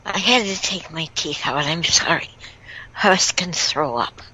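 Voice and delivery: talking without dentures; gummy, toothless speech. Real, not acted. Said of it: "Just so you know why I'm talking like I'm talking".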